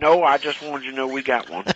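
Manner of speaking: light hillbilly twang; hillbilly accent. Pretend. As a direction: slip into a joking hillbilly voice. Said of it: "why you changed to that voice".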